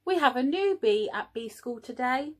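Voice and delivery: queen announcing. Acted. Queen announces new bee.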